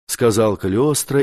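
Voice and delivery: ordinary delivery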